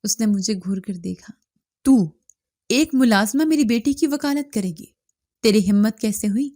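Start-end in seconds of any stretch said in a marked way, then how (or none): 1.8-6.5 angry scolding. Acted. Chieftain to the maid who defended his daughter, furious. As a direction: scold the servant for daring to speak.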